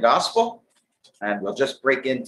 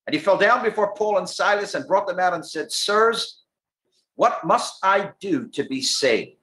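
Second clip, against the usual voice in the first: higher Bible reading, slowing on the question; scripture reading; 7 semitones higher than usual. Real, not acted. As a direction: read the verse out with deliberate weight. Reads scripture aloud.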